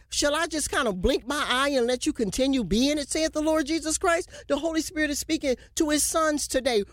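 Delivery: quick prophetic sermon voice; prophetic preaching. Acted. Preacher proclaiming to the sons of God, urgent prophetic delivery. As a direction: declare the Spirit's word to the land.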